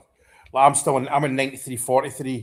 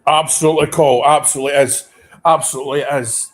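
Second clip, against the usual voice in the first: louder, forceful agreement; emphatic agreement; 7 dB louder than usual. Real, not acted. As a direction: bang the point home. Fan agreeing with TV pundit.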